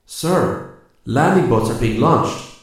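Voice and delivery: loud, high call across the distance. A narrator's reading. Santos calls to Rip from the cave entrance, loud call. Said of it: "Santos called from the cave entrance".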